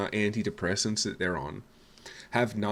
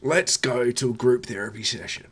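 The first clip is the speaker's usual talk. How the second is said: mock sensitive Aussie bloke; 2 semitones higher, 3 dB louder than usual. Mocking a sensitive Aussie bloke urging his mates to share emotions, eager. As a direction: gush about feelings like a caricature.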